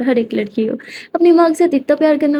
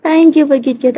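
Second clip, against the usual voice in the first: dismissive thanks; 3 semitones higher, much slower than usual. Acted. Simran's mock thanks, slowed.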